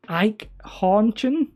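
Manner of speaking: Ike Hornchen sounded out slowly in two English syllables; slow attempt at German. Shown as a demonstration. Asked to say the German word, sounds it out slowly. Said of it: "Can you say".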